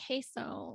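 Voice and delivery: queso said as "KAY-so"; mock ignorant "KAY-so" for queso; mispronounced queso. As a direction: mimic an English "kay" at the start of queso. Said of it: "the way that they say it".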